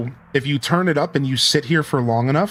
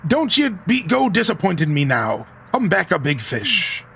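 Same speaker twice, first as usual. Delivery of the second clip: lightly voiced old sailor, higher; a hint of a hearty sea dog; scottish laird; 5 semitones higher than usual. Reads old sea captain's lines.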